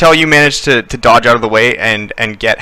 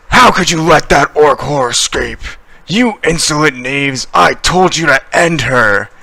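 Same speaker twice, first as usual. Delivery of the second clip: higher, raging accusation; furious dwarf shout; 4 semitones higher than usual. Acted. Dwarf Gundren screaming at the party for letting her escape, furious. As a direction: berate them like worthless servants. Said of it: "he shouts".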